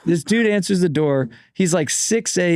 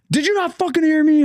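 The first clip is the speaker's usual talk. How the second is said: imitating the angry man with the hose; mock angry yell; 10 semitones higher than usual. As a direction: snap like a fed-up homeowner. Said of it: "he's like".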